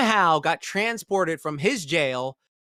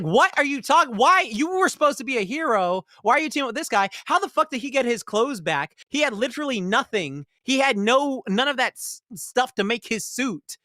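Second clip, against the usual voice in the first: exasperated disbelief; 7 semitones higher than usual. Retold or imitated. Viewer's exasperated reaction quoted.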